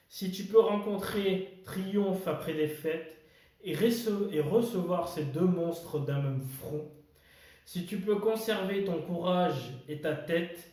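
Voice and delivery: measured verse with pauses between lines; poem recitation. Acted. Host reading Kipling's If to viewers, poem recitation. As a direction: recite it line by line, weighing key words.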